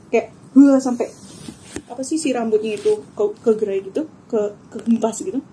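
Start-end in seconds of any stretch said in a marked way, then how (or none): 0.6-0.8 short louder mock scream; imitated loud scream. Recalling the apparition's loudest scream, louder mock scream. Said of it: "yang kenceng banget".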